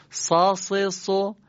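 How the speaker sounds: سا س سو with a thick emphatic ص; emphatic Sad. Shown as a demonstration. Teacher modeling ص for listening students. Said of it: "الان فقط گوش بدید".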